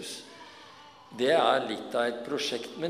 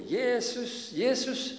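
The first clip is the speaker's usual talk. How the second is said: much higher, louder desperate cry; calling out; 11 semitones higher, 5 dB louder than usual. Acted. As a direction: shout for help over the crowd. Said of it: "men han bryr seg ikke og roper".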